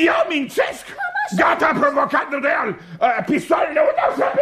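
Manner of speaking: high-pitched offended protest; theatrical outrage; indignant outburst. Acted. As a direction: bluster as an insulted baron. Baron offended at being disbelieved.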